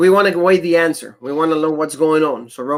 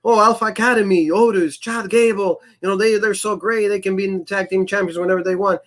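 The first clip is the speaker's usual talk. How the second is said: slightly higher, lightly mimicked hype talk; mock match hype; 4 semitones higher than usual. Cohost recalling how they hyped the match, mock hype. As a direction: imitate someone gushing over the teams. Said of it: "when they were hyping the match, remember this? He goes".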